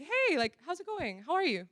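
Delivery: friendly greeting. Acted. Acted friendly reply to girl's greeting.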